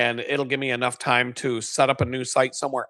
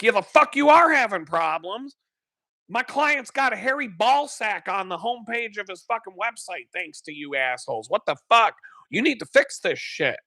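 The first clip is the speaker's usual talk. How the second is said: higher, heated telling-off; angry rant; 5 semitones higher than usual. Retold or imitated. Yelling at web host tech support over the client's site, heated anger. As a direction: tear into them like they wronged you.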